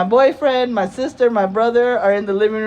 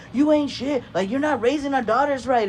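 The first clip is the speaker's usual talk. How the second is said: higher-pitched, quick retold tirade; going in; 5 semitones higher than usual. Dad attacking mom's parenting in a retelling, going in. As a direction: imitate an angry dad tearing into someone. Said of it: "like, going in".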